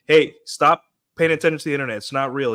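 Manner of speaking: ordinary delivery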